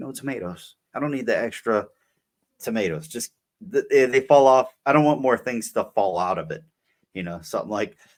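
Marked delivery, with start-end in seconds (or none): none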